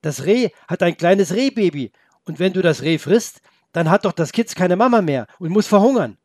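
put-on boy worked up over the fawn; upset pleading. Boy pleads with the wolf for the fawn, upset. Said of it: "antwortete Felix aufgebracht".

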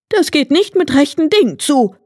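high, puzzled hare voice; hare exclaiming. A narrator's reading. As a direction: call out, baffled and suspicious. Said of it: "rief er". (hoch und verwundert ausrufender Hase)

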